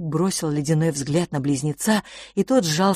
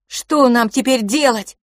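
harsh voice; 7 semitones higher, 7 dB louder than usual. A narrator's reading. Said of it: "раздался жёсткий голос Филиппа".

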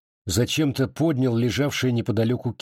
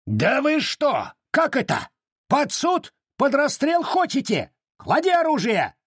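bellowing. A narrator's reading. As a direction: scream at them to drop the weapon. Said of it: "заорал урядник".

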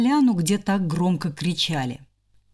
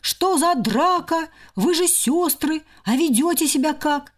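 higher, stern scolding; scolding hamster; 7 semitones higher than usual. Acted. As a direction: tell off the sisters.

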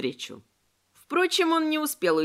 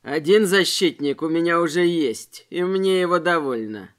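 menacing robber; 4 semitones lower, 5 dB louder than usual. A narrator's reading. Robber boasts of his knife.

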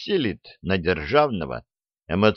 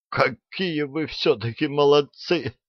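slow, tender praise; the king is touched to his heart; deeply moved; 6 semitones higher than usual. A narrator's reading. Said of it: "окончательно растрогался король". (совсем растроганно)

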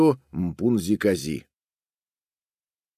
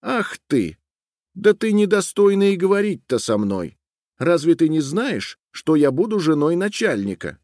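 haughty, much higher, scornful; proud girl sneering at a frog; contemptuous; 8 semitones higher than usual. A narrator's reading. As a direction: look down on the frog. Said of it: "с презрением отвернулась и сказала".

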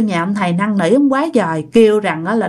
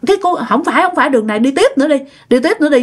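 higher-pitched quote of a mother giving directions; lightly voiced mother; 5 semitones higher, much faster than usual. Mother directing her child on the road to the master's house, lightly imitated. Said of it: "mẹ của bạn nói".

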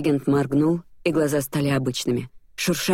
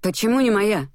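higher, puzzled question; genuinely taken aback; baffled, rising question; surprised; 6 semitones higher than usual. A narrator's reading. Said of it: "удивился Людо".

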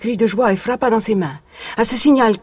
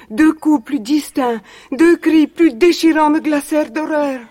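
mounting dread; 3 semitones higher than usual. Acted. Narrating the massacre, mounting panic.

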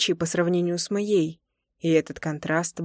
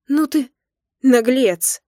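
much louder, higher indignant cry; indignant outburst; 5 semitones higher, 7 dB louder, slower than usual. Acted. Wife scolding cheeky husband, loud and indignant. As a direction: scold him loudly, half-laughing.

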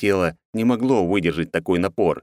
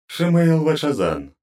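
high, slow, grating name call; goddess summoning; 10 semitones higher, slower than usual. Acted. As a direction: call him out like a cold deity. Goddess calls the counsellor.

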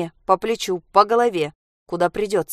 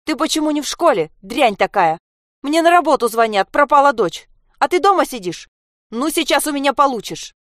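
angry scolding; 8 semitones higher, 5 dB louder than usual. Acted. Mother scolds truant daughter.

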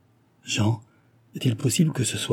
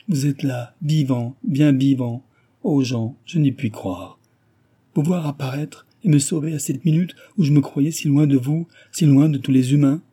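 put-on a higher, urgent young lady's voice; young woman pleading, higher and anxious; lightly voiced frightened young woman; 5 semitones higher, 4 dB louder than usual. A narrator's reading. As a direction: let fear lift the voice as she warns him. Susanna voiced, overjoyed.

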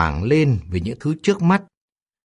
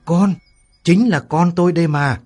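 high, loud cry of joy; joyful exclamation; 7 semitones higher, 5 dB louder than usual. Acted. Mother overjoyed to see her daughter alive. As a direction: cry out in relief at finding her. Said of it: "reo lên".

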